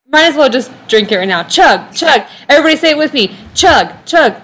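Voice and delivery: chanting chug chug; party chant, cheering on; frat bro. Real, not acted. Chanting to drinker.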